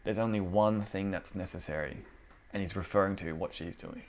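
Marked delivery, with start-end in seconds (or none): 0.0-2.0 softer gentle Jesus, understated. Retold or imitated. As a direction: ease her down kindly, no rebuke. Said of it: "He just kind of gently just goes".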